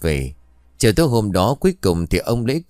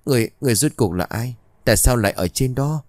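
shocked disbelief; 4 semitones higher, faster than usual. Acted. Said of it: "như không tin vào mắt của mình".

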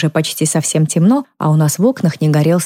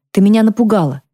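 shaken, higher, slowing at the end; startled; 5 semitones higher than usual. A narrator's reading. Girl finding her mother in the dark, asking shakily. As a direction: still catching her breath from the fright.

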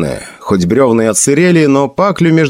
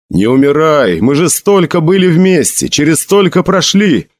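desperate pleading cries; 6 semitones higher than usual. Acted. Sedjin begs dying Bjorn to stay, pleading cries. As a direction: cry out to a dying friend, voice pitched up.

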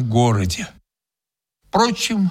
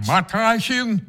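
холодно; 6 semitones higher than usual. A narrator's reading. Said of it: "холодно ответил я".

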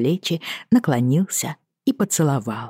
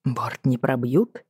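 casual; 4 dB quieter, slower than usual. Acted. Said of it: "пытаясь подражать небрежному тону капитана".

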